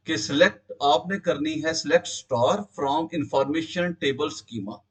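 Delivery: choppy internet audio, words dropping; bad connection. Real, not acted. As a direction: voice cutting out on a bad line. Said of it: "आपकी आवाज break हो रही है".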